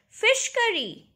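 high, slow delighted cry of Fish curry; thrilled find, stretched out; excited discovery. Acted. Girl delighted at lunch box.

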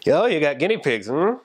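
playful, sing-song teasing. Retold or imitated. Speaker freaking people out about eating guinea pigs, teasing. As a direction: tease them, savouring it with a relishing "mm".

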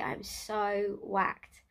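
very slow, worn-out; exhausted. Real, not acted. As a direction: stretch it out, spent.

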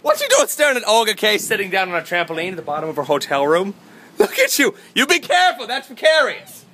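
high, loud mock-alarmed shout; excited shouting. Vlogger greets audience and spots friend on trampoline, excited shouting.

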